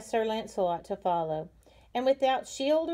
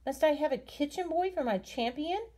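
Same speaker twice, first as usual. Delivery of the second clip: higher, scornful outburst; indignant cry; 6 semitones higher than usual. A narrator's reading. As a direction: cry out in disdain at a kitchen boy. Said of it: "But the lady cried".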